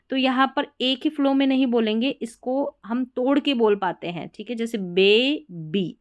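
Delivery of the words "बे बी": बे then बी, broken apart syllable by syllable. Shown as a demonstration. Teacher breaks the word into syllables for students. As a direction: split बेबी into बे and बी. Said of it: "ऐसा बोला".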